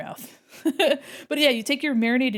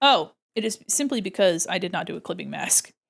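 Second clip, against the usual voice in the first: ordinary talk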